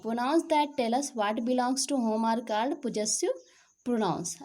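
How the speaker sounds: slow, deliberate reading of an English definition; slow textbook reading. Shown as a demonstration. Teacher reading a definition slowly to the class. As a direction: read each word out clearly for students.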